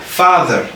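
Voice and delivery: FATHER with FA lifted, falling after. Shown as a demonstration. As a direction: stress the FA of FATHER. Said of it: "nga yëkkati fa bi".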